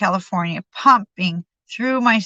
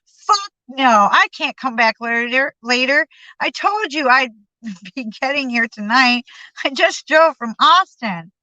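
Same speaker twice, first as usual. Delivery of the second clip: barked; 4 semitones higher than usual. Retold or imitated. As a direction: bite back with road-weary irritation. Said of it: "I barked".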